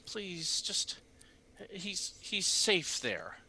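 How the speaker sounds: high, slow begging; desperate old man pleading; pleading father. Acted.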